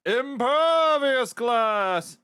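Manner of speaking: slow, loud, put-on boastful voice; proud showman. Manager assuring the reporter, boastful put-on voice. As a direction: brag about the glass in character.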